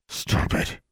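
unvoiced, strained hiss; grated through teeth. A narrator's reading. Brother stung by sister's words, grating. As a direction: force it out through gritted teeth. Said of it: "he grated through his teeth".

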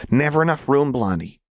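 put-on high, gleeful, unhinged girl's voice; a giddy troublemaker explaining a mad plan; manic Jinx. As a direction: bounce it up high with wild glee.

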